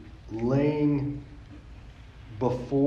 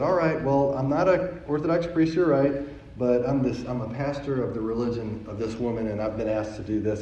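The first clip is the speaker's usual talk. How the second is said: calm explanation. Retold or imitated. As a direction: answer an upset crowd calmly. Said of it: "And so I said calmly".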